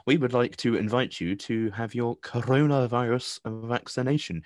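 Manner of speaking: slow, stiff official reading of the text; formal text-message voice. Retold or imitated. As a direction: read it like a prim official notice. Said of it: "I'm not sure why I read it in that voice".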